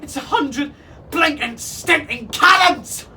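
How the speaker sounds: high, loud parrot alarm; frantic bird lookout; parrot screech. A narrator's reading. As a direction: screech the warning in shock. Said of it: "he screeched".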